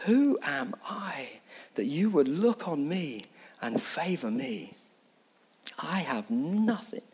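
soft, reverent awe before God; hushed awe. Acted. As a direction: breathe it out in quiet amazement. Awed response modeled for congregation.

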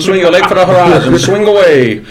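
lightly voiced old Southern gentleman, gruff; a hint of a cranky Southern colonel scolding; mild drawling Southern old-timer. Southern gentleman character continues.

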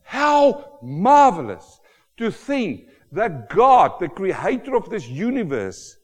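high, loud marvelling cry to the Lord; awed prayer. Retold or imitated. Praying alone in his room, awed and loud. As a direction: let the wonder burst out. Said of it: "I said".

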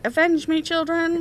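hammed-up dying villain plea; mock dying last words; death cry. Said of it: "its death cry".

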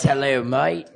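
shaky stab at British "mate"; rough put-on British voice; attempted British accent. Shown as a demonstration. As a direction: try out a British greeting. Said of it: "what's your British voice sound like".

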